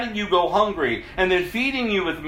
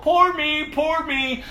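whiny pity party; 6 semitones higher, slower than usual. Retold or imitated. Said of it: "I was always crying out".

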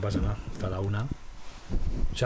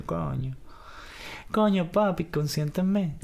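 lilting mock Venezuelan woman; sing-song plea like a flirty Venezuelan; a touch of cantadito Venezuelan lilt; 3 semitones higher, much slower than usual. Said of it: "la venezolana habla así, cantadito".

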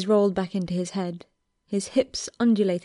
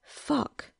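soft, breathy, higher curse; 6 semitones higher, 7 dB quieter than usual. A narrator's reading. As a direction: swear it under your breath. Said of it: "Louis swore".

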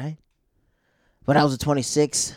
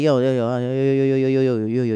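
louder repeated yo to get attention; calling out; 2 semitones higher, 5 dB louder than usual. Retold or imitated. Stepping in to calm the angry dudes, calling out louder. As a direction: call out over them to cool things down.

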